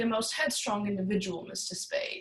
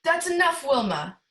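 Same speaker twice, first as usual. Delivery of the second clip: loud and higher, cutting him off; sharp loud order; 5 semitones higher, 6 dB louder than usual. Acted. Boss ordering his gunman to stop kicking, sharp loud command. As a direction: stop him mid-kick with your voice.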